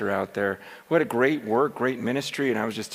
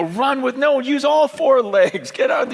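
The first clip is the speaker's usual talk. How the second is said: coaching the lion; 10 semitones higher, 4 dB louder than usual. Acted. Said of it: "trying to run with the lion and go".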